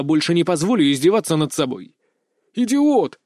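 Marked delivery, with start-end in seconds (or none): 2.5-3.2 louder, higher yell of Idiot; inner shout. A narrator's reading. Inner voice shouting at the hero. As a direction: snap it out as a cry. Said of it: "закричало что-то внутри меня".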